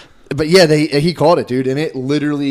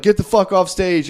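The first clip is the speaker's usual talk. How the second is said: higher, slow, drawn-out command; mock angry order; 6 semitones higher, 3 dB louder than usual. Comic retelling host throwing woman off stage, mock anger. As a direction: imitate ordering someone off, each word leaned on.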